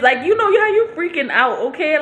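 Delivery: high, amused aside with a laugh; laughing at herself. Real, not acted. Vlogger laughing to viewers about her panic. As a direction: laugh off the memory.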